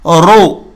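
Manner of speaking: teacher modeling Urdu-Arabic ro; model syllable ro. Shown as a demonstration. Teacher drills students on Quranic letters, modeling the syllable. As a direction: pronounce رو with a heavy rounded r. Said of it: "اس کی مشق کرنی ہے".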